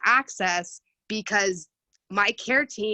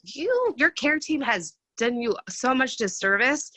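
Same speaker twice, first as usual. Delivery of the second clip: higher, drawn-out indignation; indignant retelling; 4 semitones higher, slower than usual. Retold or imitated. Reacting to a woman who was never told about it, indignant. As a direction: stretch it out in slow, exasperated disbelief.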